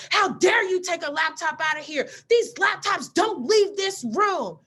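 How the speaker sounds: yelling that the laptops stay put; retold scream. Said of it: "why are you screaming at me".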